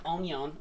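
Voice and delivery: "onion" said as a mock-French "ohn-yohn"; nasal French-style vowels on "onion", both like "oh"; fancy mock-French pronunciation. Cook brings onion to the pan, "onion" as mock-French "ohn-yohn".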